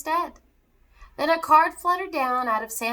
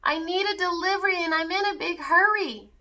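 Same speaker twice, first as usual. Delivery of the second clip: elf hollering; 6 semitones higher than usual. Acted. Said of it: "he hollered to Murray".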